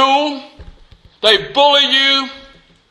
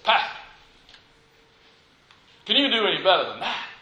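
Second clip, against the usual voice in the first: low, hushed challenge; quiet aside; 5 semitones lower, 8 dB quieter, faster than usual. Retold or imitated. Young preacher to the old pastor beside him, quiet aside. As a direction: drop low and soft, as if leaning over to him.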